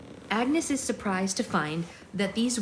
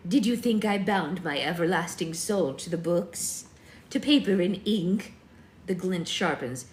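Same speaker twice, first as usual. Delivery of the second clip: put-on old witch voice; 3 dB louder than usual. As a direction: intone it like an ancient witch. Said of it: "That's the only witch voice I've got for old ladies".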